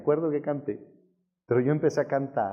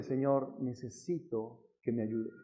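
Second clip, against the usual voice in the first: soft, subdued plea; retold kneeling prayer; 2 semitones lower, 6 dB quieter than usual. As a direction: pray quietly, admitting you are at a loss. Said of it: "arrodillado, diciéndole".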